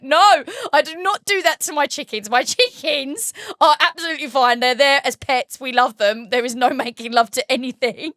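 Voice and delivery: high, loud, laughing denial; laughing protest. Retold or imitated. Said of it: "I was like".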